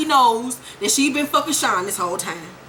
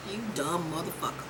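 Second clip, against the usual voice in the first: laughing insult; 7 semitones lower, 14 dB quieter than usual. Real, not acted. Mocking laugh at Kanan's son.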